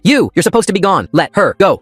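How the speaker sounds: loud, high raging yell; furious yell. Acted. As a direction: scream it in rage. Jake raging at narrator.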